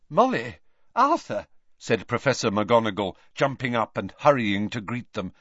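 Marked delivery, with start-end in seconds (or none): 0.1-1.5 high, urgent greeting call. A narrator's reading. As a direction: call their names across the ward. Calling out in greeting.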